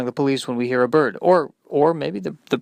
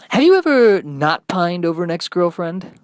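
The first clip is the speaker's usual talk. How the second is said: DJ question; 3 semitones higher than usual. Acted.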